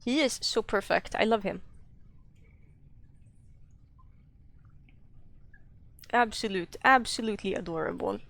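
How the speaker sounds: put-on Swedish accent, lightly done. Streamer showing viewers old art, fake Swedish accent. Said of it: "show it with a Swedish accent".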